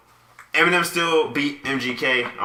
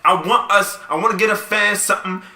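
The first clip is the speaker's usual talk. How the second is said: exasperated complaint; 7 semitones higher, 7 dB louder than usual. Real, not acted. Bickering with cohost.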